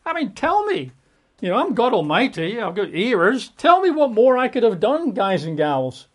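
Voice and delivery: high, loud anguished cry; God shouting out. Acted. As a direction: cry out to the people, demanding an answer. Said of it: "he's shouting out".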